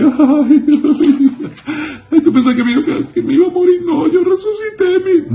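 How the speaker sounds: very high, whimpering wail; hammed-up blubbering; mock crying. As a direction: squeal it through fake sobs. Mock weeping Jesus, as before.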